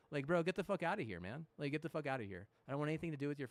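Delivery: loud, exasperated get-out rant; angry outburst. Real, not acted. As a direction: blast it out in disgust. Ranting at the team.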